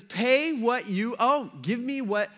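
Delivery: high, drawn-out demand for payment; imitated menacing creditor; angry demand. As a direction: act out a creditor demanding money.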